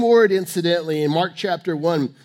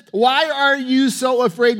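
high, forceful challenge; incredulous, loud reproach; loud rebuke; 5 semitones higher, 5 dB louder than usual. Acted. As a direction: confront frightened followers with raised voice. Jesus rebukes the disciples.

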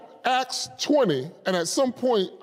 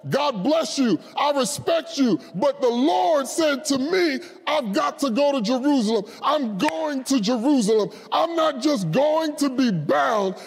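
rapid-fire, resolute preaching declaration; determined; 2 semitones higher than usual. Acted. Paul answering Agabus that he must go, determined. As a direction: declare it with unbending resolve, phrase after phrase. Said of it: "because Paul had determined".

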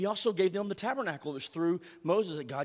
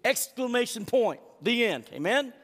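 emphatic preaching; 4 semitones higher, 4 dB louder than usual. Real, not acted.

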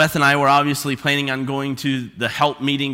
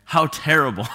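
mock indignation; 4 semitones lower, 4 dB quieter than usual. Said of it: "I remember thinking".

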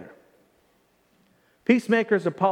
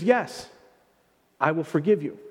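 gentle forgiveness; 3 semitones lower than usual. Shown as a demonstration. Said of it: "The answer is".

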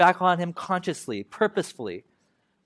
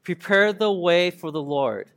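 slow, measured scripture reading; reading together; slower than usual. Shown as a demonstration. Preacher leading everyone through the verse, slow unison reading. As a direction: lead a group recitation, slowly and evenly. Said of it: "read it together".

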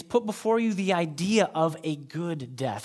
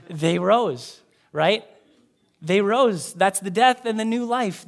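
emphatic proclaiming; 2 semitones higher, 6 dB louder than usual. Real, not acted. Preacher stresses resurrection image.

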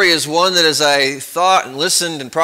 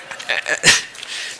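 soft laugh; 5 dB quieter than usual. Real, not acted. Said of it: "That's the hardest thing".

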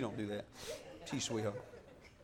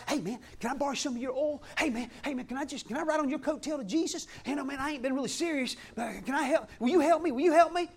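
fast, softer pleading mock voice; begging foolish virgin; 6 dB quieter, faster than usual. Foolish virgin begs the wise ones for oil, fast and soft. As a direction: beg quickly for a share of oil. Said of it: "The other five were like".

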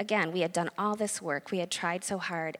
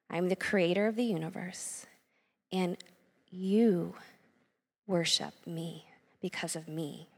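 gentle, kind voice. Retold or imitated. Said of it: "very kindly, very gently said to me".

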